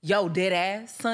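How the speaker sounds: street New York slang voice; New York accent. Pretend. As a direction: tough Bronx attitude. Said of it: "Let us hear your New York accent".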